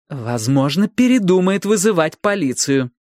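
crisp, decisive finish; firm and clear. A narrator's reading. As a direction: state it with resolve. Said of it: "чётко и решительно".

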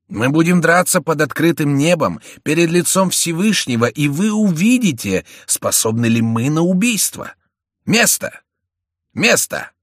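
high, loud, impassioned vow; ringing proclamation. A narrator's reading. Young duellist vows an open fight before God, ringing cry. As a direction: declaim it, rising to high calls.

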